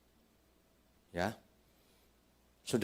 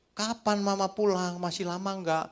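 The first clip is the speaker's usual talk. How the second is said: put-on whiny child; 10 semitones higher than usual. Child asking when mama returns.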